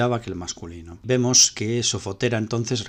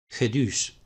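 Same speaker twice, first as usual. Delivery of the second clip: "Gedus" stressed on its last syllable, DUS; oxytone stress. Shown as a demonstration. Teacher citing an adjective, "Gedus" with oxytone stress. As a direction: put the weight on the end of "Gedus". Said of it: "vemos el acento oxítono".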